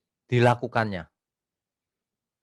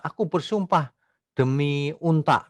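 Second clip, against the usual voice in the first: lightly acted oath, pitched up; mock oath-taker; 6 semitones higher than usual. Preacher giving an absurd example of swearing, mock oath. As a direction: swear it slowly, half-playing an oath-taker. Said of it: "ada orang yang bersumpah".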